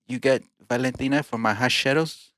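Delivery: playful put-on Mexican accent; lightly hammed Mexican accent. Asking a shopkeeper for hot sauce, playful Mexican accent. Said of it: "We got different accents now".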